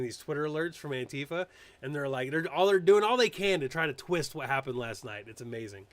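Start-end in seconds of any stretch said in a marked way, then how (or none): none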